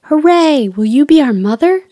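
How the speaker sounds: high, loud happy cheer; joyful shout. A narrator's reading. Lost Boys greeting Wendy, high loud cheering. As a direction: cheer it out like excited kids. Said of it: "they shouted".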